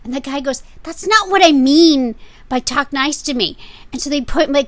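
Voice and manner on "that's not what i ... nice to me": irritated. Retold or imitated. Seller corrects Frank.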